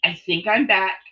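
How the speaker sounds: ordinary talk, nothing marked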